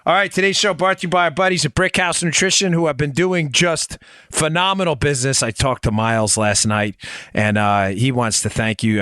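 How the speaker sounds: upbeat sponsor read. Acted. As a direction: sell it to the audience.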